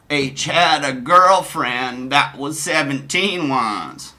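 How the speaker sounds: slow, drawn-out put-on voice; Donnie's chat voice. Streamer voicing Donnie's reply in chat, slow put-on voice. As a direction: stretch the words out slowly. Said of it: "forgive my voices".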